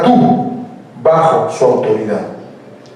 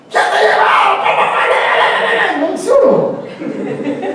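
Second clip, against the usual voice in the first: high-pitched hammed-up mum yell; shouting mother; 13 semitones higher, 4 dB quieter, slower than usual. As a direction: yell shrilly like an exasperated mother. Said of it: "La mamá". (grito agudo de mamá, exagerado)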